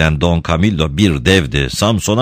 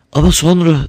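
moaning; 11 semitones higher, 3 dB louder than usual. Acted. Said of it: "diye inledi Binella".

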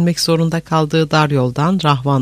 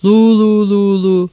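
high, drawn-out victory whoop; joyful war cries; 7 semitones higher, 4 dB louder, slower than usual. A narrator's reading. Soldiers celebrating after the killing, joyful war cries. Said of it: "Sevinç naraları attılar".

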